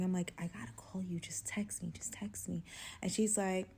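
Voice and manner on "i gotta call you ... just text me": hushed, urgent phone whisper. Retold or imitated. Woman secretly on the phone to her best friend, whispering. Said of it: "on the phone, my best friend whispering".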